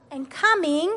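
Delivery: put-on feed it to the kids to echo; verse to repeat. Shown as a demonstration. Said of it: "Okay, repeat after me".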